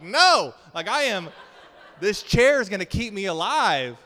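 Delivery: loud, high mock-frantic shout; panicked refusal. Refusing a little girl's hand in turbulence, comic panicked shout. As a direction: shout it like a terrified passenger.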